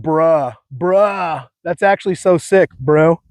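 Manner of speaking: light mock California bro. Shown as a demonstration. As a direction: drawl "that's actually so sick" like a Cali bro. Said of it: "I love the, like".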